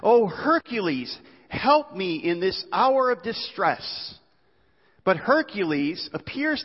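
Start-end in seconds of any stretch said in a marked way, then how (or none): 0.0-4.1 slow, higher-pitched plea for help; drawn-out, hammed-up appeal; crying out. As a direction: call on a god with mock distress. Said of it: "he cries out to Hercules".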